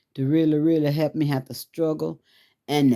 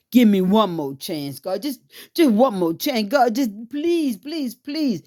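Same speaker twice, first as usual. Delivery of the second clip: a woman reliving her plea for one more chance; retold begging; 6 semitones higher than usual. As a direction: climb higher with each please. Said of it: "begging God for mercy".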